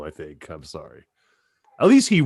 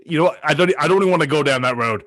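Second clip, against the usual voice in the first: laughing; 3 semitones higher, 4 dB louder than usual. Real, not acted. Laughing off a joke.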